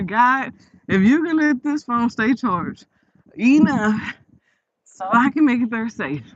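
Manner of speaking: emphatic, drawn-out mock plea; retold desperate prayer. Retelling a plea to God for phone charge, imploring. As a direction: stretch the plea out, punching the key word. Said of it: "I was praying so hard".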